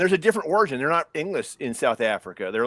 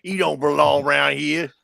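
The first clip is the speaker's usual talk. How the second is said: hammed-up Southern local; mock Southern accent. Host playing a hostile local to the guest, mock Southern accent. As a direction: put on a Southern American twang.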